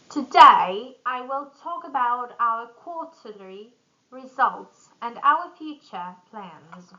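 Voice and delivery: varied, lively pitch for a presentation; lively presentation intonation. Shown as a demonstration. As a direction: present it with rising and falling energy. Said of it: "It should be improved like this".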